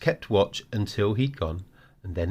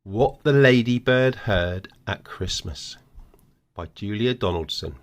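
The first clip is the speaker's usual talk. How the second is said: announcing the title; 5 dB louder than usual. Shown as a demonstration. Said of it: "Right, what's the story?".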